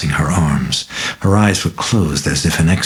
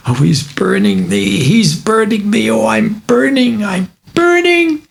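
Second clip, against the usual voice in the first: high, slow cries of burning pain; a girl crying out as if on fire; agonised child; 3 dB louder than usual. Acted. Girl cries out in pain, high and slow.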